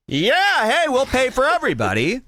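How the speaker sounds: high, eager, pushy offer. Retold or imitated. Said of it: "And we go".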